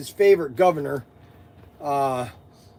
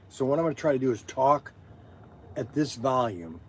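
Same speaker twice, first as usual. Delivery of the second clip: softer, low-key volume check; nice quiet voice; 6 semitones lower, 9 dB quieter, faster than usual. Shown as a demonstration. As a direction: talk gently so viewers can hear. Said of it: "if I talk like this in a nice, quiet".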